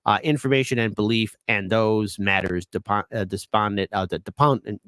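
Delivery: halting, tripping over the legal wording; stumbling over words. Real, not acted. Reading a sworn statement aloud, stumbling over words. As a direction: fumble and restart as you read. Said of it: "I'm stuttering here".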